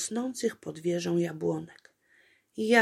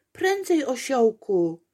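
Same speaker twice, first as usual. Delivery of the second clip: much higher, louder urgent cry; more urgent; 5 semitones higher, 7 dB louder than usual. A narrator's reading. Apolejka pleading faster, much higher. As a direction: push harder, climbing. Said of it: "szeptała Apolejka".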